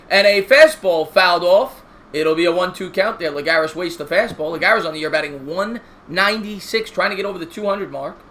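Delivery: steady broadcaster call of the inning; play-by-play commentary. Acted. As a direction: call the game like a TV announcer. Mock play-by-play of game.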